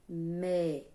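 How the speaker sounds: loud, clear syllable demo of "Me-ni-no"; split into syllables. Shown as a demonstration. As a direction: punch out each syllable of "Me-ni-no". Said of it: "A tia primeiro diz me".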